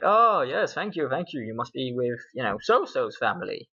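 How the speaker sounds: mild overjoyed welcome; happy groom. Acted. Groom on his wedding day greets the guests, mildly delighted. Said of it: "very happy 'cause it's his wedding day".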